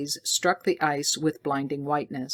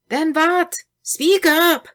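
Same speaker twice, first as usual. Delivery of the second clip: 1 urgent demand; 13 semitones higher, 7 dB louder, slower than usual. A narrator's reading. Scientist demanding the rest.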